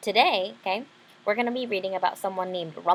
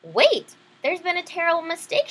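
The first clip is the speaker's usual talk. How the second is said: loud, higher panicked cry; shouting girl; 8 semitones higher, 4 dB louder than usual. Acted. Isabel shouts to the king as she is taken, high and loud. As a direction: shout out to stop them. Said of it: "shouted Isabel".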